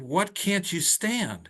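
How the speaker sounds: puzzled question. Retold or imitated. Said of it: "And I said".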